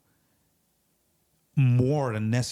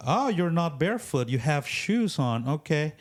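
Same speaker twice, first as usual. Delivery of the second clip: mock sarcasm; 5 semitones higher than usual. Imagined Jesus answers the complainer sarcastically.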